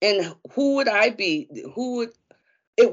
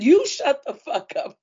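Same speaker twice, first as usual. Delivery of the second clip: higher and louder, mimicking the daughter; daughter's comeback, imitated higher; imitating daughter; 9 semitones higher, 5 dB louder than usual. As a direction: throw it back at her like the daughter did. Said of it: "She said".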